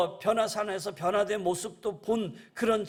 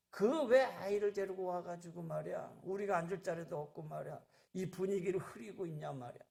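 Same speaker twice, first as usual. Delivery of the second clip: grumbling disciples; 5 dB quieter than usual. Retold or imitated. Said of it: "제자들이 막, 꾸짖어요".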